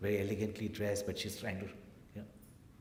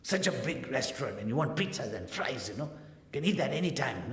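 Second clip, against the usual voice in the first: upset mother's scolding, slightly raised; acted motherly telling-off, a little higher; 4 semitones higher than usual. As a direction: scold the child, mildly exasperated. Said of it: "She got really upset".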